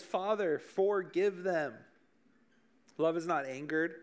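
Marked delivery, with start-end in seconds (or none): 0.0-1.7 slow, tender plea; lightly voiced Jesus forgiving his killers. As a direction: draw it out gently, a touch higher. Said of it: "But Jesus, who's love, says".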